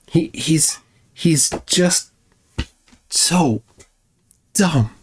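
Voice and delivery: hushed, breathy aside about him; whispered aside. Real, not acted. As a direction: drop to a confiding whisper.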